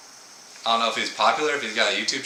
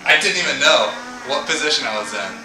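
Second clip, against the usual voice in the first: talking with a toothbrush in mouth; words round a toothbrush; while brushing teeth; 12 semitones higher than usual. Real, not acted. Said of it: "I'm brushing my teeth".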